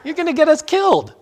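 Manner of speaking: high, slow panicked plea through laughter; mock panic, laughing hard. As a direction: beg him to stop, laughing.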